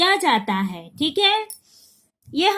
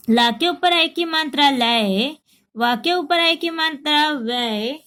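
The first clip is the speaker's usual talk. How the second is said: steady sing-song chant of syllables; drill recitation; 2 semitones higher than usual. Shown as a demonstration. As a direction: recite each syllable clearly for the class. Teacher reciting the vowel sign drill. (कक्षा में मात्राएँ दोहराती शिक्षिका)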